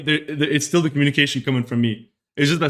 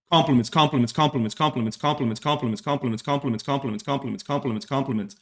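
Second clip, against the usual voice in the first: rolling repetitive chant, trailing softer; rattled-off repetition; 5 dB quieter than usual. Shown as a demonstration. Streamer showing chat how Arabs communicate, rattled-off repetition. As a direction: reel it off like an endless list, fading. Lists compliments as endless stream.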